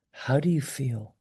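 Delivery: hushed, tender question; very gently. Shown as a demonstration. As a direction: ask softly so the person can open up. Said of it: "Just very gently".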